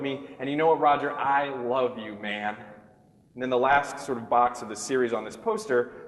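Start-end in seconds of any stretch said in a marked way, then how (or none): 0.4-2.6 mock heartfelt. Mock heartfelt declaration to Roger.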